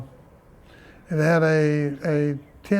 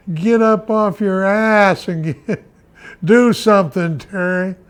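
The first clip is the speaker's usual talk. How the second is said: angry father; 3 semitones higher, 6 dB louder than usual. Retold or imitated. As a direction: imitate a father urging his son on, amused. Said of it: "I'm gonna quote him".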